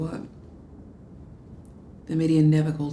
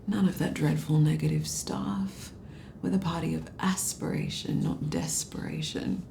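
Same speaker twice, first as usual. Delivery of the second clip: fake pompous British accent; 3 dB quieter than usual. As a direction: sneer at him through a fake posh British accent. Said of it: "in that fake, pompous British accent".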